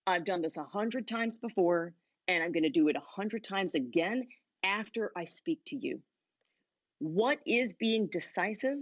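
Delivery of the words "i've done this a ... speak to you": confident. Shown as a demonstration. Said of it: "The second one says".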